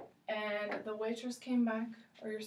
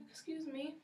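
polite customer; 2 semitones higher than usual. Shown as a demonstration. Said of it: "we could say".

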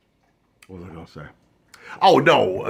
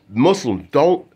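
raised and louder, half-joking plea for mercy; mock plea; 3 semitones higher, 6 dB louder than usual. Joking to Muslims, a loud mock plea. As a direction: beg them in jest, pitched up. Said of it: "I'm joking".

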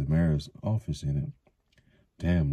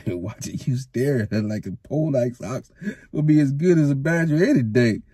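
higher, louder mocking tease; teasing; 9 semitones higher, 5 dB louder than usual. A narrator's reading. Matt teasing Rand about the girl, mocking. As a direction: rib him playfully.

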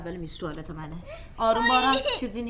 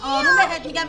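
higher, louder command to calm down; sharp scolding; 11 semitones higher, 8 dB louder than usual. Acted. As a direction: snap at the child to settle. Mother scolds struggling child. (دستور تند و بلند)

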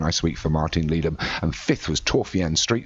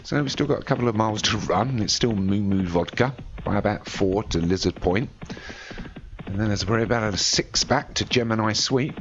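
running call that builds towards the finish; race commentary. Acted. Commentator calling the race home to listeners, rising play-by-play. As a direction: ride the race with your voice, lifting late.

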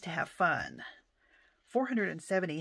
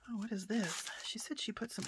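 whisper; 3 semitones higher, 5 dB quieter, faster than usual. Real, not acted. Quietly opening gift box.

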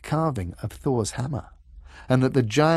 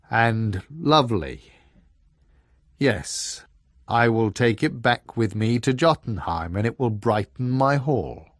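a giant softened by beauty; awed frost giant; 3 dB louder than usual. Acted. Giant admires the carving.

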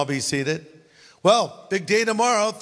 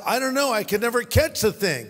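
higher, lightly voiced farmer; farmer's punchline; 5 semitones higher than usual. Farmer in the pastor's joke answering, lightly voiced and baffled. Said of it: "He says".

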